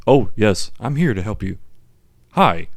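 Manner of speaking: lightly imitated translation voice-over; a hint of old radio commentator; commentary voice. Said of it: "weird translation of, like, a commentary".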